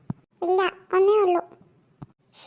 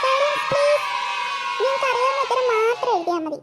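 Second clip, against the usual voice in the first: stern teacher shout; 3 semitones higher than usual. Acted. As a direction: bark it across the exam hall. Teacher silencing the exam hall.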